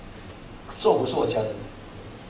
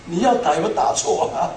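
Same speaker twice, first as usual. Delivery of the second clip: laughing complaint. Retold or imitated. Preacher jokingly asks God if he hit the wrong man, laughing. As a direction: laugh through the grumble.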